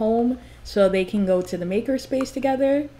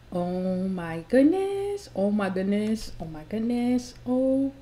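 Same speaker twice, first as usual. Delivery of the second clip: slow, then softer each time; stunned disbelief fading; 5 dB quieter than usual. Real, not acted. Streamer finding out her Sim has a girlfriend, stunned and fading. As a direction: let the shock sink in. Shocked at Brenda reveal.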